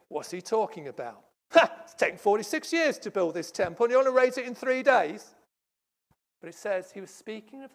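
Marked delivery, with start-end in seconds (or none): 0.1-5.4 scoffing laugh then high, loud disbelief; mocking scorn. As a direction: ridicule the idea out loud. Leaders mocking Jesus' claim.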